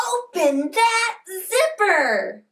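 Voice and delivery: cheerful group yell; yelled call-out. Shown as a demonstration. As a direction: call it out loud. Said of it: "let's yell".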